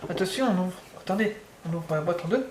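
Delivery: soft, close ASMR voice; hushed, right in your ear ASMR. Pretend. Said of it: "je vais quand même faire de A S M R".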